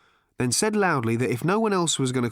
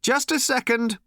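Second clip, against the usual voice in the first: shouted; 12 semitones higher than usual. A narrator's reading. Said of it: "Ford shouted".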